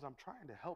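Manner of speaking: getting very quiet. Speaker retells a movie character's words to Bilbo, retelling a quiet line. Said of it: "gets real quiet and says".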